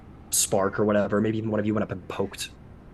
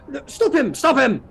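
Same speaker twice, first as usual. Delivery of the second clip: high, loud, urgent shout; urgent order; 13 semitones higher, 6 dB louder than usual. Acted. Escobar to the guards as warrior charges, urgent shout. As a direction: call out sharply to halt a runaway.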